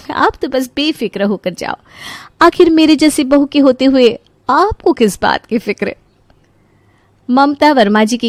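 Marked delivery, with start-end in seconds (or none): 0.1-5.9 lightly boastful, coaxing voice; sweetly cocky, slightly raised pitch; self-assured daughter-in-law. Acted. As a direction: reassure her with airy confidence.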